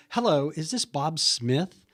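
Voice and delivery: slow, formal cold-call greeting; stiff telemarketer opener. Shown as a demonstration. Agent demoing the wrong way to greet a seller, formal and slow. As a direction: sound like a telemarketer reading a script. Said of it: "they think it's a telemarketer".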